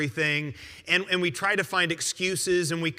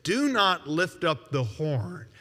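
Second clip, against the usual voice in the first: slow solemn command; 3 semitones lower than usual. Retold or imitated. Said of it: "he says".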